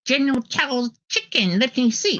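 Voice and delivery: high, put-on Asian accent imitation; mock Asian accent. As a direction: parody her fake Asian accent. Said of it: "she starts going like".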